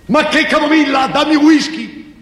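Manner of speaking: high, thin voice that doesn't match her body; demanding whisky in a thin high voice; Marina's thin voice. Acted. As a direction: squeak it out like a tiny-voiced woman. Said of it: "Una voce che non ci sta mica con quel corpo".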